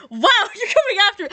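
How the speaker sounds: laughing in mock offence. Real, not acted. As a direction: laugh through the words. Roasted by a viewer comment.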